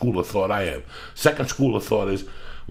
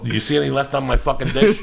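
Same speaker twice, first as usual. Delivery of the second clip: laughing; 5 semitones higher, 5 dB louder, faster than usual. Retold or imitated. Answering wife, laughing at the joke.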